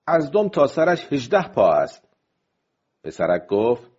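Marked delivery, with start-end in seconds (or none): 0.1-2.1 higher, mildly raised call. Acted. Fisherman measuring the fish for the others, calling out. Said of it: "با صدای بلند گفت".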